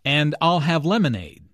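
emphasize "I'll" and "lemonade"; stress on I'LL and LEMONADE. Shown as a demonstration. Teacher replaying Anna's drink choice, stress on "I'll" and "lemonade". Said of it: "Notice how Anna stresses".

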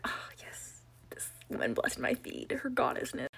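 hushed, starstruck praise; awed. Retold or imitated. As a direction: breathe it out in awe. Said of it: "I'm like".

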